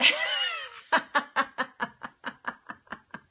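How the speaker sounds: long high peal of laughter; helpless high-pitched cackling that slowly runs out; real laughing fit. Real, not acted. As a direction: burst out laughing and keep going. Cracks up at a comment.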